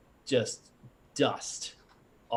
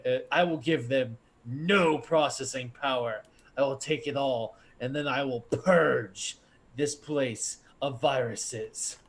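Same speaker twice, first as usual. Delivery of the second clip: a touch louder, booming pronouncement; 2 semitones higher, 4 dB louder than usual. Acted. GM voicing the CPU condemning viruses, mildly booming. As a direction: declare it like a cold overlord. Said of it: "respond in a booming voice".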